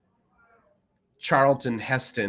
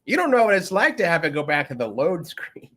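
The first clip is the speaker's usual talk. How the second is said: put-on old gamer grumbling; 3 semitones higher than usual. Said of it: "Still telling people".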